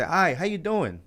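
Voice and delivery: high, uppity greeting. Shown as a demonstration. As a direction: raise the voice for a light hello. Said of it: "It sounds higher pitch".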